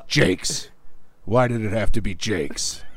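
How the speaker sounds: Harrison Ford impression. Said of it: "stares at Jake Gyllenhaal and goes".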